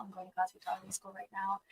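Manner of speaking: faint, off-mic voice; speaking away from the microphone; turned away from mic. Real, not acted. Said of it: "Talk into the mic".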